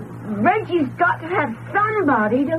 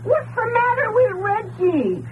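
frightened call. Acted. Frightened boy calling up.

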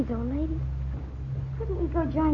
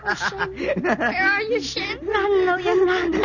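crying in fear; slower than usual. Acted. Crying for help.

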